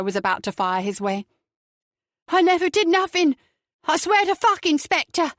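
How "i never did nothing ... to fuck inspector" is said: high, louder whimpering plea; pitiful big man. A narrator's reading. Big Beryl pleading his innocence to the inspector, pitifully. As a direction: beg like a big baby. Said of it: "pitifully for such a big man".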